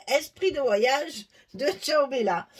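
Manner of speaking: enjoy every French sound of "esprit de voyage"; relishing French name. Shown as a demonstration. Crafter proudly pronounces the French title for once, loud and savoured. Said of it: "pour une fois que c'est français, j'en profite".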